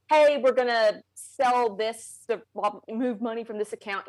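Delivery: deliberate retelling of an earnest proposal; slow, matter-of-fact start, quoting him; imitating serious husband. Wife imitates her husband's plan to fund the snake, serious. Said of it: "that's how he said it".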